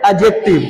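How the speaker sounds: एडजेक्टिव with silent D; correct pronunciation. Shown as a demonstration. Teacher models the word for class, correct pronunciation. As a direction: say एडजेक्टिव as "a-jective". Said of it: "डी को silent".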